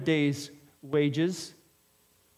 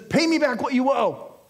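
mild mock threat; 5 semitones higher, 3 dB louder than usual. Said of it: "he chokes him and he says".

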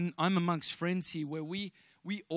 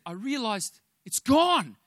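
retold joy; 5 semitones higher, 7 dB louder, slower than usual. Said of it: "He said".

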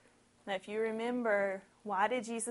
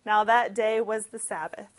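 louder ominous reread of Sabbath; much louder dramatic retelling; 11 dB louder than usual. Shown as a demonstration. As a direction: boom it out as foreshadowing. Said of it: "there's your foreshadowing".

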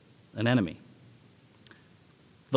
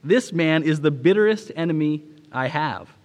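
emphatic acted protest; exclaiming; 2 semitones higher, 4 dB louder than usual. Pastor correcting Washington about his enemy, exclaiming. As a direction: protest it firmly, with mild exclamation. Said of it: "he exclaimed".

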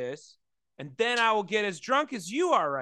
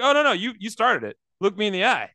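louder, higher mock dad insisting; insistent dad; 3 semitones higher, 5 dB louder, faster than usual. Dad insisting you started it, louder and higher. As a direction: push it on him like a dad spoiling for a fight.

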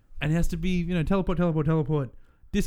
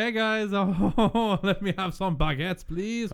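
hammed-up French accent, higher pitch; 5 semitones higher, much slower than usual. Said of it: "The French accent".

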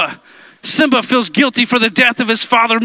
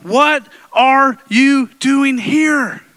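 voicing God; much slower than usual. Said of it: "God is here to remind you".

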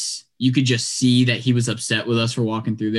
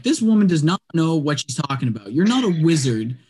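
incredulous inner voice; 4 semitones higher than usual. Retold or imitated. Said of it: "again in my head".

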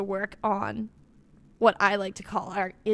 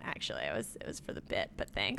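whispering; 11 dB quieter than usual. Real, not acted. Confessing the bit aside.

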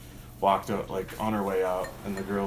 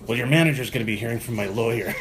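louder imitation of an irate customer; acted-out customer outrage; mock indignant threat; 5 dB louder than usual. Retold irate customer threatening staff.

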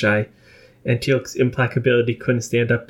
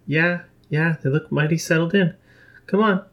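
gruff O'Neill; 5 semitones higher than usual. A narrator's reading. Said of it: "moderate the growl of his voice".

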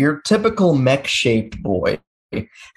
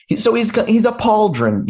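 wrestling announcer; 11 semitones higher than usual. Pretend. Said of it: "in an announcer voice".

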